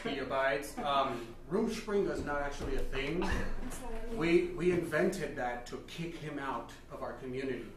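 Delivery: stern Amish father. Acted.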